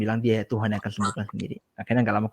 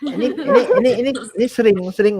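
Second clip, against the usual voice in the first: laughing; 11 semitones higher, 7 dB louder than usual. Real, not acted. Laughs at the host's remark.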